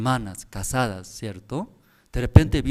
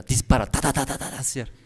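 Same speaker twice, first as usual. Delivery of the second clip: quick ta ta like a rifle; rapid-fire chatter; faster than usual. Shown as a demonstration. Preacher mimicking a wife's fast talk. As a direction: rattle it off like gunfire. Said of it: "Como y una, un fusil era".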